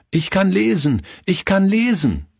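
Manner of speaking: put-on high, sing-out boyish boast; jubilant calling out. A narrator's reading. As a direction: proclaim it to everyone in earshot. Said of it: "rief er jedem zu".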